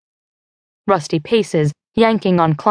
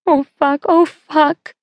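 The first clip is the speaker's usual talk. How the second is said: much higher, building panic; panicked crying; 9 semitones higher, slower than usual. Acted. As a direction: voice climbing into a frightened wail. Becca starts crying in panic.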